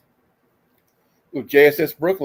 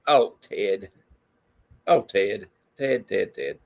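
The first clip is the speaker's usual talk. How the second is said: swooning sigh; 6 semitones lower, 5 dB quieter, slower than usual. Acted. Swooning woman reply.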